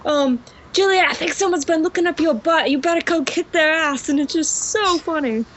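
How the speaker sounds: enthusiastic put-on British accent; English accent. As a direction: gush in an assumed English accent. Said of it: "heard me speak with an English accent".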